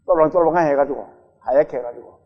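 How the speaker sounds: ordinary talk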